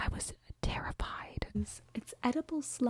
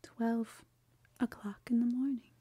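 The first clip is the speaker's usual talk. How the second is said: whispering. Real, not acted. Late night whispering.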